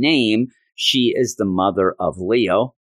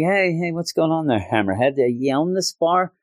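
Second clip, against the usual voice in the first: mock confrontation; 7 semitones higher than usual. Acting out mobster confronting Hammerhead.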